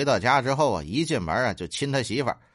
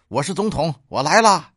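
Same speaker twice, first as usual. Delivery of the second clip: acted excited cry, higher and building louder; excited shout; 4 semitones higher, 6 dB louder than usual. New president coming home to a dark bedroom, excited shouting. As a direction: announce yourself in gleeful, hammed-up triumph. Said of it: "然后兴奋地嚷道".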